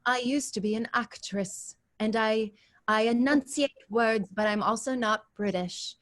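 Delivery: a hint of a mid-Atlantic actressy accent, over-enunciated; lightly imitating a theatrical mid-Atlantic accent; Catherine O'Hara's odd accent. Actor sketching the accent from Schitt's Creek, lightly mid-Atlantic. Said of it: "accent where she's like".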